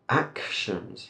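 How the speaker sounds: Actions with its K sound clearly separated; sounded-out consonants. Shown as a demonstration. Teacher breaks the word up, Actions sounded out carefully. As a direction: break Actions after a crisp "ak". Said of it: "we have that K, that T".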